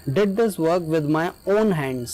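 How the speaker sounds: very slow, "this" prominent and falling; emphatic stress. Shown as a demonstration. Teacher showing the emphatic version with stress, very slow. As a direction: press every word to insist. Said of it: "इसी को emphasise कर कर बोलेंगे, stress देकर".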